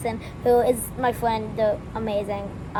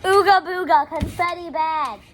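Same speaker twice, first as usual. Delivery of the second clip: caveman voice; 5 semitones higher, 4 dB louder than usual. Pretend. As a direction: play a dumb caveman.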